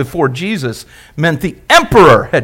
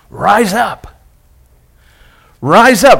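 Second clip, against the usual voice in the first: rallying call; 4 semitones higher, slower than usual. Acted. Preacher exhorting congregation.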